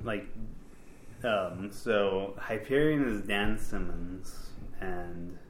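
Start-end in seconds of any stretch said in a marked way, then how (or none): 4.8-5.4 tipsy, slurring words. Real, not acted. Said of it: "I'm so drunk right now".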